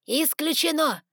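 high, loud, indignant outburst; emphatic refusal. A narrator's reading. Doctor rejecting the contract, emphatic refusal. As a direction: slam the door on the idea.

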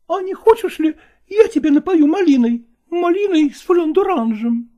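high, eager female voice; eager woman. Acted. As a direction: press your offer, pitched high. Nastina offers.

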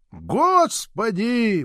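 high, drawn-out cry to God, slow; fervent prayer cry. A narrator's reading. Grandmother praying over the boy, high and slow. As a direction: stretch the word out like a desperate plea. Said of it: "молилась моя бабушка".

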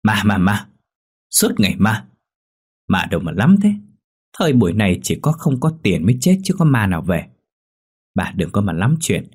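a mildly voiced angry husband scolding his wife; husband banging the table, mildly angry scolding; irritated scolding. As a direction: snap at her, fed up with ghost talk. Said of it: "cáu quá đập bàn quát".

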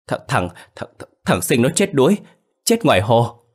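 put-on a scared child tripping over the first word; stammering fright. Boy telling the old man his grandson drowned, stuttering in fear.

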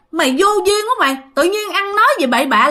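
quick, high-pitched telling-off; retold scolding. Mother rebukes brother-in-law for asking her to burn clothes, retold scolding.

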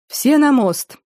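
high rallying shout; rally the men with a shout; battle cry. Acted. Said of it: "крикнул, поднимая своих людей". (боевой клич)

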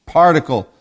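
very slow, every syllable stretched; drawn out. Acted. Preacher stressing God's purity to the church, slow. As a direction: linger on particle for weight. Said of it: "not one tiny iota".

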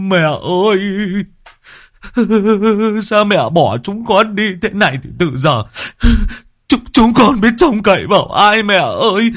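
weep loudly for the crowd; mock wailing. Younger brother joining the wailing before relatives, sobbing theatrically. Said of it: "cũng tu tu".

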